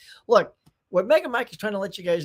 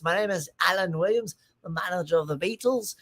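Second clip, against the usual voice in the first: lightly put-on voice of an old British band manager; a light imitation of a band's first manager introducing himself; Alan Williams impression. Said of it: "I'll do an impression for you 'cause it sounds a lot like this".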